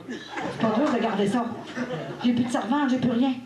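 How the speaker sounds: plainte mi-rieuse, plus aiguë, à la Vierge; négocier avec la sainte en riant à moitié; supplication en riant. Retold or imitated. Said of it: "Hey, j'ai dit". (la mère implore la Vierge en riant, voix plus aiguë)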